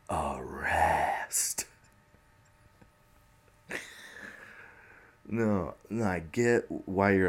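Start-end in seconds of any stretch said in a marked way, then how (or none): 0.1-1.6 whispered. Real, not acted. Whispered aside to Trump.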